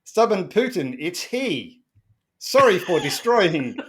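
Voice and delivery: mock-earnest reading; half-amused reading of a garbled sentence; reading a garbled text. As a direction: read the odd translated line aloud. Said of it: "comma, it's he, full stop".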